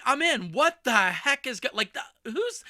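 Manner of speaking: loud, high, eager "I'm in"; excited high exclaim; hooked reader. Retold or imitated. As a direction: burst in like you can't wait to read on. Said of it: "You're like".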